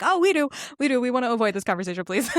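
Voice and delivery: hammed-up relief at escaping the talk; eager mock agreement. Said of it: "Portia and Singer are like".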